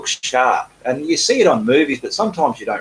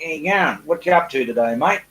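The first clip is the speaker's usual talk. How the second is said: casual Australian greeting, slightly higher; Aussie accent demo; 3 semitones higher than usual. Shown as a demonstration. Showing viewer Mark how Aussies talk, casual Australian accent. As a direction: lay on a little Aussie mateyness. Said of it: "That's how us Aussies talk".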